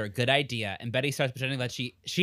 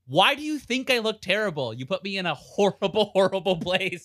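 indignant retort; 5 semitones higher than usual. Retold or imitated. Betty snaps back at Alice.

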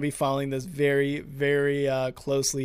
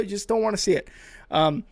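normal talking voice

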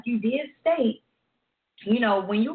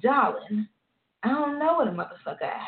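mock diva singer; 3 semitones higher than usual. Co-host mocking how a singer would say it, diva voice. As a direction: purr the word "Darling" like a diva. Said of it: "I'm surprised she didn't say".

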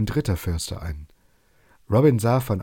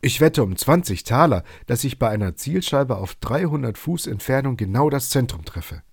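angry snap; 5 semitones higher than usual. Acted. Robin challenges the foresters, snapping angrily. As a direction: spit the wager back at them. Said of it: "fauchte Robin".

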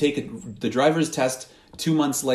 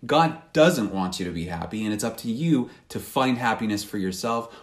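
tempting voice; 3 semitones lower than usual. Retold or imitated. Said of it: "the voice saying".

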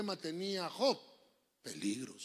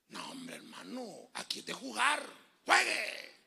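mock referee; 3 semitones higher, slower than usual. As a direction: bark it like a fed-up referee. Imita al árbitro regañando. (árbitro burlón que grita)

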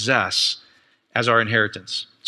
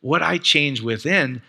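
slow realization; slower than usual. Retold or imitated. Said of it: "She goes".

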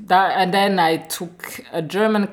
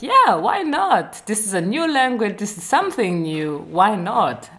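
high, eager voice, bursting with enthusiasm; excited; 4 semitones higher than usual. Retold or imitated. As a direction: say it like a thrilled young student. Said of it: "And I was like".

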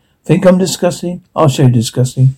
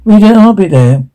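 raised voice through a door; calling out; 5 semitones higher, 4 dB louder than usual. Acted. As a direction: call out to be heard.

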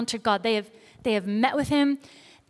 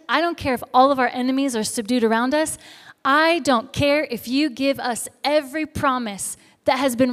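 firm, insistent challenge, building in force; Moses, bold. Retold or imitated. Moses refuses to go on without God, bold insistence. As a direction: stand your ground and refuse to budge. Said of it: "but he is bold".

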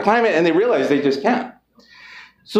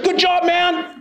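high-pitched mock white American accent; 11 semitones higher, much slower than usual. Repeating the white people's praise for laughs, white accent. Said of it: "That was my white accent".

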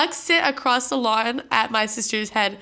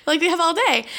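laughing while quoting; 6 semitones higher than usual. Retold or imitated. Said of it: "And we were like".

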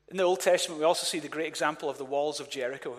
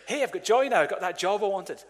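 a touch of put-on excitement; mock joy; 3 semitones higher than usual. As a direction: imitate someone pleased with good news. Voicing people glad about circumstances.

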